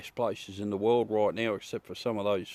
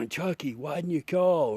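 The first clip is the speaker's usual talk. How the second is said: higher-pitched mock ad voice, a light send-up; quoting an old ad; 5 semitones higher than usual. Streamer quoting an old TV ad to Brett, higher mock voice. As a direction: lightly ham the TV ad line. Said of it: "Remember that ad".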